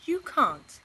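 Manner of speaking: loud, high flat refusal; firm no. Acted. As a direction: shut it down. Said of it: "said Missus Large".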